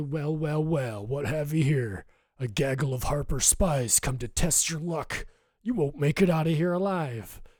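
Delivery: rough, threatening, menacing voice. Voicing an unseen enemy greeting the party: rough, menacing voice. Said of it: "a voice that echoed rough and menacing".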